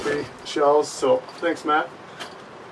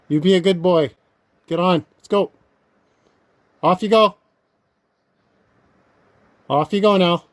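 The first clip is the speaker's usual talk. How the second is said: loud, higher calls to send the bear off; shooing shout; 5 semitones higher, 6 dB louder than usual. Real, not acted. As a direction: shoo the bear away firmly.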